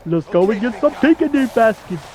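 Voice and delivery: light cartoon bear voice; a hint of Yogi Bear; mildly voiced cartoon bear. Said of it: "I can do the Yogi voice though".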